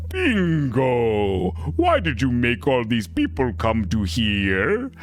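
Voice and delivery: lightly voiced Saint Peter. Saint Peter voiced scolding Bingo.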